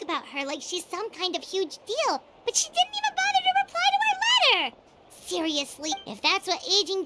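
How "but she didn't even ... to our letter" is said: indignant outburst. Acted. Paimon indignant about ignored letter.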